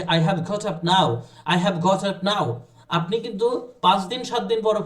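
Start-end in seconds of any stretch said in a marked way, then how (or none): 0.0-2.5 slow, deliberate repetition; slow clear demo. Shown as a demonstration. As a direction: model the line carefully. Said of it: "এভাবে করে বলতে পারবেন যে".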